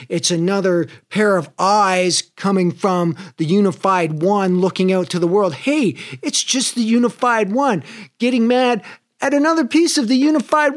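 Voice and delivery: high, airy, mock-serene musing; mock enlightened musing. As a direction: play the calm sage, half amused. Mock enlightened reply to fight.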